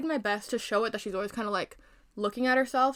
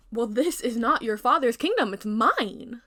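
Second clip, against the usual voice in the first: louder, proud retort; defiant queen; 3 semitones higher, 6 dB louder than usual. Acted. Queen answering Snow White, louder and defiant. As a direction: snap back with pride.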